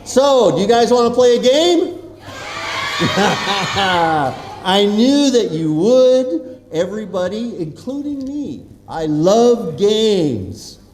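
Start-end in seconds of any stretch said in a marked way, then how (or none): 2.3-4.6 long rolling laugh; drawn-out amused ha-ha-ha; hearty laugh. Real, not acted. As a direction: laugh along with an eager crowd. Laughs at eager crowd response.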